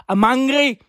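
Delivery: mock-angry botched Irish accent; bad Irish accent. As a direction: declare it as a fake irate Irishman. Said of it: "What accent is this?".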